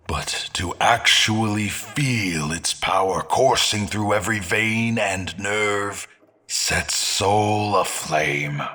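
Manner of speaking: fervent swell. Acted. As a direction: let the passion burn through.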